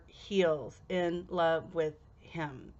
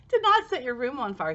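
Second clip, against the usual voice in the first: laughing disbelief; 4 semitones higher, 4 dB louder, faster than usual. Retold or imitated. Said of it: "I was like".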